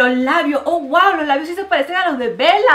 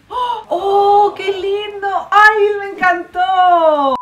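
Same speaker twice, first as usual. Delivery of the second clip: cooing over cute; 8 semitones higher, 3 dB louder, slower than usual. Real, not acted. Cute drawing reveal.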